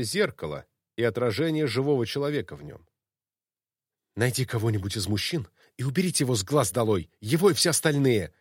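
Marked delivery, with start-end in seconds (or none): 4.2-8.3 shouting. Acted. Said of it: "Ирина продолжала кричать".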